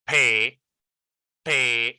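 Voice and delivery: "pe" held alone with an open e; isolated first syllable. Shown as a demonstration. Teacher splitting parrot for learners, isolated syllable. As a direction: sound out "pe" by itself. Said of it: "We are pronouncing e".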